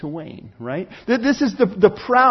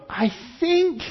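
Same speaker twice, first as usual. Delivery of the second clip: mock unsure hesitation; 11 semitones higher than usual. Mimicked unsure helper.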